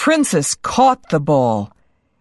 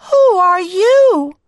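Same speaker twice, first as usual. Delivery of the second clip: high, slow, startled princess cry; a cartoon princess crying out in surprise; 13 semitones higher, 5 dB louder than usual. A narrator's reading. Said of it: "she cried".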